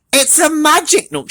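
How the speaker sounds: high, thrilled cry; excited shout. Acted. Littlest Rabbit amazed by the nut, high. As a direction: shout with wonder. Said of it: "shouted Littlest Rabbit".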